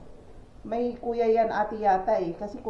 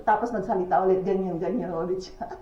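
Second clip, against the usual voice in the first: chuckling through the words, a bit faster; laughing while telling. Real, not acted. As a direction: laugh it out as you recount the scene. Laughing at the mentally ill man.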